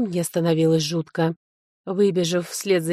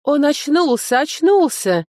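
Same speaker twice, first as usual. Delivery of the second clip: high, loud cry of relief; excited cry; 8 semitones higher, 5 dB louder, slower than usual. A narrator's reading. Servant cries that his lord came round, excited cry. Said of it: "закричал Климент и подбежал".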